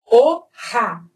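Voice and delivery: "O, ra" split in two, second syllable a rasped kha; throaty Spanish J. Shown as a demonstration. Teacher reads hoja, throaty J in "ra". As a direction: separate "O" then scrape "ra" in the throat. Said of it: "som de R bem forte na garganta".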